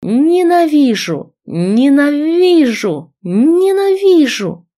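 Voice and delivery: loud, slow, high cries of hate; hateful screaming. A narrator's reading. Girl kicking her rival, screaming hatred. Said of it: "с криком со всей силы".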